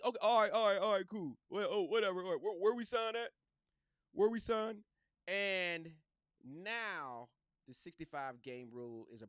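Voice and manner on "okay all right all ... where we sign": loud, eager, hurrying to sign; a player who can't wait to sign the deal. Pretend.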